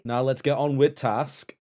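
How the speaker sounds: put-on loud Yorkshire accent; Yorkshire accent, dropping the article. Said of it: "I'm gonna go Yorkshire".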